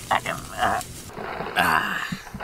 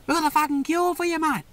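luring call; 11 semitones higher than usual. Acted. Luring the creature out.

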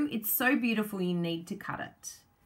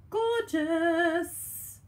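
higher gushing word; 9 semitones higher, 3 dB louder than usual. Real, not acted. Crafter admiring another sheet, high gushing. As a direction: gush it up high.

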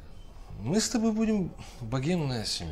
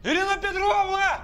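high, panicked call held long; calling out again. Acted.

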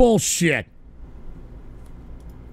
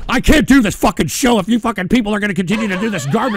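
exasperated rant; 4 dB louder, faster than usual. Real, not acted. Frustrated rant at soundboard.

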